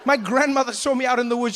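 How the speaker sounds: usual speaking voice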